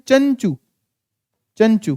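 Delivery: चंचू with a full nasal consonant; short vowel closed by n in चंचू; anusvara demo. Shown as a demonstration. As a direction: sound the n clearly in चंचू. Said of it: "चंचू में चंग".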